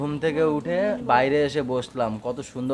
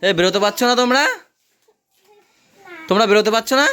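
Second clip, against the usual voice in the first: calling out; 6 semitones higher, 7 dB louder, faster than usual. Real, not acted. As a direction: shout across the playground. Calling to kids stuck in net.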